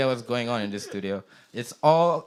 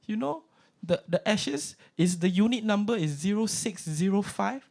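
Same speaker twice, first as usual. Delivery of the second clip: high auntie voice reading out a number; godma voice; 8 semitones higher than usual. Retold or imitated. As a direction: make it sound like an important secret. Godma giving unit number.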